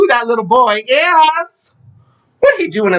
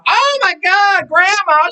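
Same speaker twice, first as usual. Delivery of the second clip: dramatic gasp; 11 semitones higher, slower than usual. Real, not acted. Remembering dead grandmas on Mother's Day.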